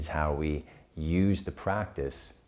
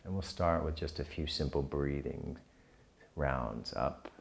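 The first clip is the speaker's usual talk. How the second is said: calm, unhurried guiding with long pauses; guided meditation; 4 dB quieter than usual. Real, not acted. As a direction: gently lead them through the breath, settling softer towards the end. Leads the breathing practice.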